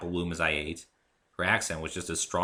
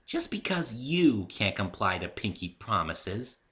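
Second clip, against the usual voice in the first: slightly cold; 3 semitones higher, slower than usual. Acted. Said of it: "slightest touch of coldness in her voice".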